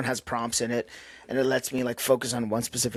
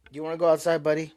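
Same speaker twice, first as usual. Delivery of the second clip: high, sing-song voice for the dog; asking the dog to go outside, in a high friendly pet voice; pet talk; 5 semitones higher, faster than usual. Real, not acted. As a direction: coax the dog like a buddy. Talking to the dog.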